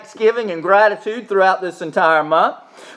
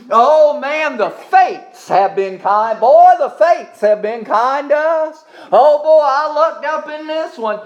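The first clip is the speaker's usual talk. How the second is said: mock worldly boaster; 4 semitones higher, 4 dB louder than usual. Mocking worldly folks thanking fate.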